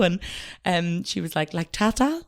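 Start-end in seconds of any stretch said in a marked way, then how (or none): 1.5-2.2 imitated toddler, higher and louder; little niece's accent. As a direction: ask in a small child's accented voice. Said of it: "she's a funny little accent".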